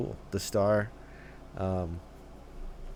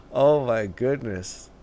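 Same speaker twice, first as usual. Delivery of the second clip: awed; 3 semitones higher, 7 dB louder, slower than usual. Real, not acted. Still reacting to the outfit.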